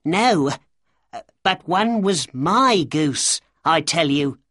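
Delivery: high, insistent little man; protesting cry. A narrator's reading. Little man claiming his goose from Breckinridge, crying out. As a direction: cry out in protest, stretching the key words. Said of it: "cried the little man".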